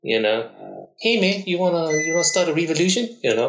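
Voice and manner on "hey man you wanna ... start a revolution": put-on light New Zealand accent, pitched a little higher; a hint of New Zealand English, casual and teasing; Taika Waititi New Zealand accent. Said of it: "Taika Waititi".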